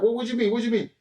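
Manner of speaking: indignant challenge. Retold or imitated. Cheater answering the guard's warning, indignant challenge. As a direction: throw the challenge straight back.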